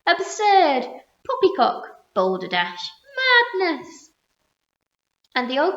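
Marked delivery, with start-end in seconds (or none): 0.1-4.1 loud, high outraged retorts; scoffing shouts. A narrator's reading. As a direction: pelt him with scorn. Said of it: "they shouted".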